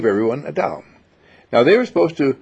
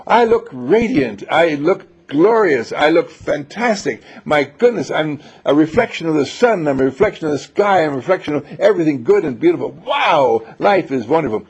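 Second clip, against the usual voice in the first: glowing self-praise; 4 semitones higher than usual. Shown as a demonstration. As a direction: proudly admire yourself. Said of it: "What positive virtue would you have me see".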